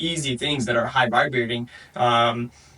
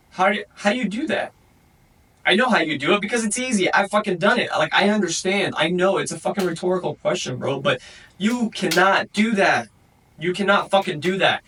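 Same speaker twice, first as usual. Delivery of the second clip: frustrated, higher-pitched ranting at the listener; real heated rant, a bit higher; getting heated; 4 semitones higher than usual. Real, not acted. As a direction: push it, worked up and exasperated. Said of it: "I'm getting a little heated".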